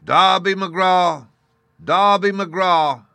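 long eerie distant wail; ghostly wail. A narrator's reading. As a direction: wail the name like a lost spirit. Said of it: "again and again and again".

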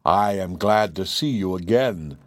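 low, slow dragon voice; deep menacing dragon, slow. Acted. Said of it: "said the dragon".

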